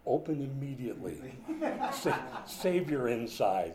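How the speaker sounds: laughing gift tag. Pretend. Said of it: "on the flip side say".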